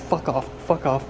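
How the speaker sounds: loud repeated fuck off; angry shooing. Real, not acted. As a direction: chase the flies off shouting. Shooing flies.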